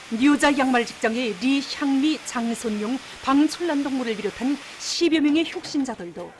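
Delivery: North Korean state newsreader accent; forceful Pyongyang broadcast accent. Real, not acted. North Korean state news read.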